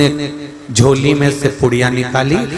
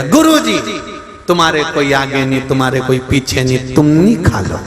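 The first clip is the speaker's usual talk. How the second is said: put-on crying child. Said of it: "छोरा रोते रोते".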